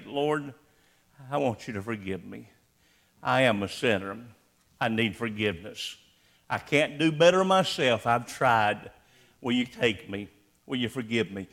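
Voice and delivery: soft, low whispered-down plea; humble prayer. Acted. Preacher voicing the sinner's prayer, soft and low. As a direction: pray it quietly like a repentant sinner.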